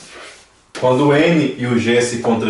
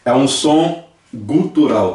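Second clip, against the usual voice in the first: slow and deliberate; 2 semitones higher, slower than usual. Shown as a demonstration. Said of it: "ele vem mais da garganta".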